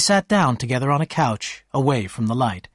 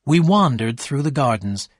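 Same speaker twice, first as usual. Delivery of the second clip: plain reading voice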